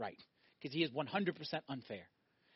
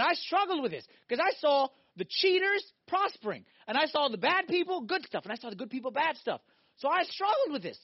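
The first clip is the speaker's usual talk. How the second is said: voicing Asaph's struggle; 9 semitones higher, 7 dB louder than usual. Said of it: "Asaph ... said".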